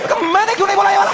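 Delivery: high, loud, fast comic wail; high loud fast mock-anguish; jealous outburst. Real, not acted. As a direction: wail at yourself for missing the joke.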